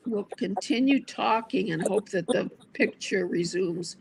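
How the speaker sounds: talking around a candy; words round a sweet in the mouth; sucking a hard candy. Real, not acted. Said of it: "I have candy in my mouth".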